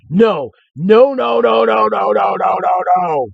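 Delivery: high, loud panicked nos; frantic repeated no. Acted. The white man refusing the explorers, high frantic shouting. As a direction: yell no over and over in a panic. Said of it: "the white man said".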